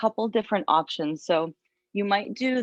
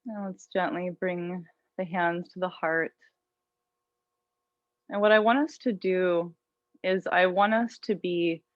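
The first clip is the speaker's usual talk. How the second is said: calm, unhurried yoga teacher voice; guided meditation. Real, not acted. Yoga teacher settling students into an intention, guided meditation. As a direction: guide them gently inward, leaving long pauses.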